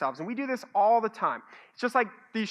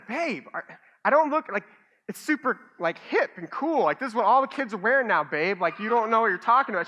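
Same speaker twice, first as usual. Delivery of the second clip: indignant protest; 5 dB louder than usual. Retold or imitated. Husband defending the hoodie.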